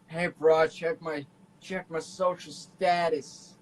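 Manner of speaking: bro-ish voice, slow on status; millennial bro voice. Retold or imitated. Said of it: "He's a millennial going".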